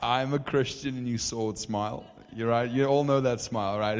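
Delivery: loud, gleeful build-up; excited. Real, not acted. Preacher thrilled telling the congregation. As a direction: crow it to the crowd. Excited bragging about the smile.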